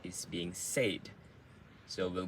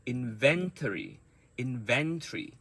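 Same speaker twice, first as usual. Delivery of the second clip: Inventory repeated with VEN punched, falling end; strong second syllable in Inventory; word stress demo; 2 semitones higher than usual. Shown as a demonstration. Teacher drills Inventory for learners, stressed on VEN. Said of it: "those sounds are the strong sounds".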